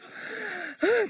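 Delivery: a high, gulping gasp of a sob; sobbing gasp. Retold or imitated. Retelling crying before the pastor, sobbing gasp. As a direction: catch the breath as if crying. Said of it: "막 울면서".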